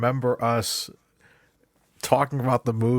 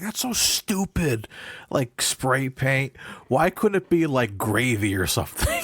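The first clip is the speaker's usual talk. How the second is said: mocking friend; 3 semitones higher than usual. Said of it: "he's like".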